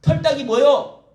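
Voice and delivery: high, loud mocking jeer; mocking sneer. Children jeering at elderly flag-wavers, mocking and loud. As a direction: spit out the insults with contempt. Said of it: "사람들의 태극기를 흔들고".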